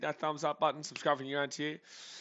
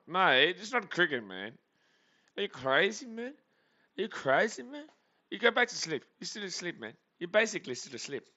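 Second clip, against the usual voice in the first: much higher, louder mock outrage at the viewer; mock outraged Aussie; 7 semitones higher, 3 dB louder than usual. Streamer teasing a sleepy viewer who wants cricket, high mock outrage. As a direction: tease him like he's lost his mind.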